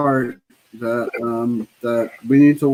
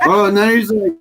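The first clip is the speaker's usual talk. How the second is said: laughing; 6 semitones higher than usual. Real, not acted.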